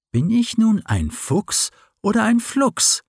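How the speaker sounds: high, rising worried question; a small fox pleading to know what he is; anxious young fox. Acted. Fox asks himself anxiously.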